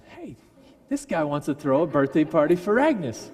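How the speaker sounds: calling out. Retold or imitated. Diner owner calling his wife from the kitchen, loud. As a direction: shout for the wife to come out.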